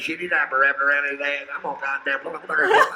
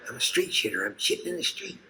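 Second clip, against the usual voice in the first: high, soft ghostly voice; ghostly jabbering woman; 9 semitones higher, 5 dB quieter than usual. Pretend. The murdered woman's ghost heard in the desert, eerie high voice. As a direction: wail it faintly like a desert ghost.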